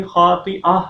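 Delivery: "خَاطِئَةٍ" ending on a breathed h, no t; final ha. Shown as a demonstration. Teacher shows the stop, "خَاطِئَةٍ" ending in h. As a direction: close "خَاطِئَةٍ" with h. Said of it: "ہا کی sound نکالی".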